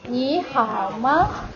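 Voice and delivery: slow 你好吗, each syllable drawn out; question with 吗. Shown as a demonstration. Teacher models turning a greeting into a question, slow question. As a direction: draw out 你好吗 slowly, ending on a light question word 吗. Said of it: "You have to make it a question".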